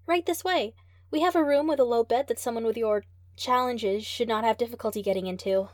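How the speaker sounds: high, loud, bright chirpy helper; cheery nurse. Acted. Cheery nurse leading trainer.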